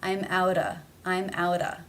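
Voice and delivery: OUTA with the T tapped like a D; flap T. Shown as a demonstration. Teacher modelling the linked T, flap T in OUTA. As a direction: say OUTA with a quick D sound for the T. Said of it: "the D sounds".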